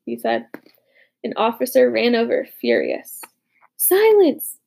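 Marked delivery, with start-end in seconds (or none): 3.8-4.6 sharp, louder hissed order; whisper yelling. A narrator's reading. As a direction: hiss the command at them. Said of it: "he hissed".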